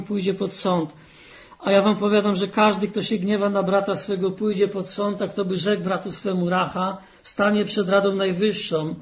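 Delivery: measured reading of Gospel verses; scripture reading. Acted. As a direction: read the text solemnly to the congregation. Reads scripture aloud in sermon. (uroczyste czytanie Pisma)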